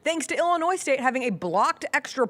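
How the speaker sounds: loud, high, hyped-up; excited. Real, not acted. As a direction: shout it like a big win. Excited game recap.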